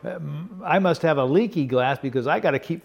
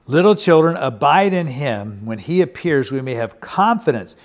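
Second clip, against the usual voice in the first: loud scripture proclamation; 6 dB louder than usual. Acted. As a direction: proclaim it to the whole congregation. Preacher proclaims scripture aloud.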